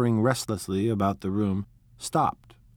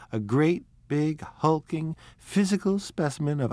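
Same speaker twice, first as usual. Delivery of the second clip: teasing mock insult; 6 semitones higher than usual. Daisy teasing Tom.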